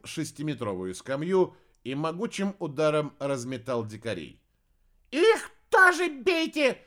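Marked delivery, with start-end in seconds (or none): 5.1-6.8 slow, high squealed order; high shout. A narrator's reading. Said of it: "запоздало уточнил Хелений".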